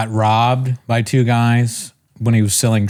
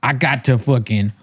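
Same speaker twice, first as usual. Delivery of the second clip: put-on slurred blaccent, pitched up and drawn out; stoned comic impression; 4 semitones higher than usual. Mimicking a stoner comedian's weed bit, slurred high-pitched blaccent. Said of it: "he looks like he's high".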